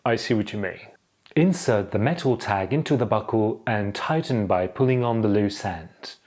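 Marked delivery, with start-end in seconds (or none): 1.4-6.2 measured, formal safety briefing; formal airline safety announcement. Acted. Cabin crew briefing passengers on seat belts, formal and measured. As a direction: deliver it like cabin safety instructions. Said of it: "the way someone would deliver airline safety instructions".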